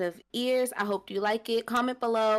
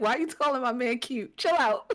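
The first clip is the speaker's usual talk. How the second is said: put-on angry, annoyed, pissed-off tone; 3 semitones higher than usual. Retelling a photo moment, quoting the other girl: imitating someone pissed off. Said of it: "She was pissed".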